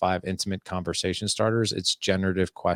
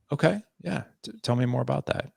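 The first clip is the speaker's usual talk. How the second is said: inviting; 5 semitones higher than usual. Shown as a demonstration. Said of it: "Again, inviting".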